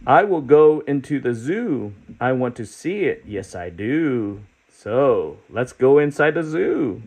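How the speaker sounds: lightly voiced eager character; storybook character voice. Teacher reading the book to kids, lightly voiced eager creature. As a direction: read it as the hopeful spotted creature.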